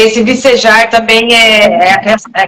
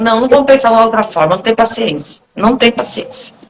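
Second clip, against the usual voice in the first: brisk, faster, no patience; firm no-nonsense. Shown as a demonstration. Host showing the blunt self-talk she uses, faster and firm. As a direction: cut the excuse off quickly. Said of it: "eu nunca falo de uma maneira suave".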